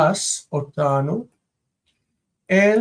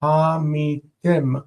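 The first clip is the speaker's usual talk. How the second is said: המיתם with stress on the last syllable, ha-mi-TEM. Shown as a demonstration. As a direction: lean on the final syllable of המיתם. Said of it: "This is from".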